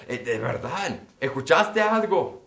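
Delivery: feigned surprise. Retold or imitated. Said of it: "yo fingía sorpresa".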